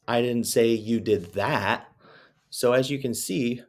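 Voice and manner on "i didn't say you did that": slow read with a falling weight on say; deliberate, falling emphasis on say; slow, even take with one pressed word; stress shifted. Shown as a demonstration. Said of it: "but said four different ways".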